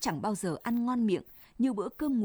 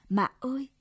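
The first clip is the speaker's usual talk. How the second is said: higher, startled cry with a touch of a sob; nức nở; 4 semitones higher than usual. A narrator's reading. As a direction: cry out like a startled night bird, lightly sobbing. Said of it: "Tiếng mẹ nức nở bật lên". (tiếng gọi cao, thảng thốt, hơi nức nở)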